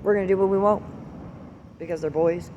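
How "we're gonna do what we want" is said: put-on high, defiant bratty kid voice; mocking the kids. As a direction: sneer it like a cheeky little boy. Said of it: "They said".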